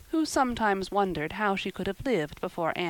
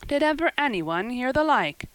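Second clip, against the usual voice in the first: raised, louder outburst; astonished exclamation; 7 semitones higher, 6 dB louder than usual. A narrator's reading. Marilla reacting to Anne's ghost tales, astonished. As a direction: exclaim in disbelief, voice lifted. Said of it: "ejaculated Marilla".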